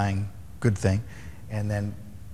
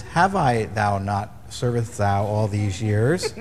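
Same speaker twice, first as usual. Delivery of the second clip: mock King James English; slower than usual. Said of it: "in perfect King James English".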